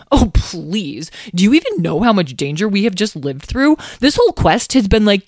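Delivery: scoffing, rising exasperation; snorting scorn. A narrator's reading. Lyle dismisses the warning of danger, scornful. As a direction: scoff as if it's absurd. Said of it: "Lyle snorted".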